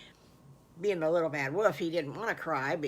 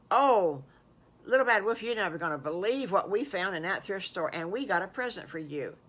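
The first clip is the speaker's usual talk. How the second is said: put-on excited young friend; 2 semitones higher, 4 dB louder than usual. Friends tell wolf of present.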